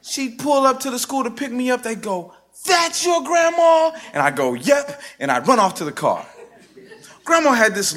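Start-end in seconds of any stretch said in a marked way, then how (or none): 2.7-3.9 loud, high, drawn-out schoolkid disbelief; mock incredulous. Schoolmates' amazed question, acted. 4.5-5.0 put-on quick, high-pitched kid's answer; child's chirpy reply. Child's proud reply, acted.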